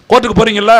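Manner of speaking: ordinary talk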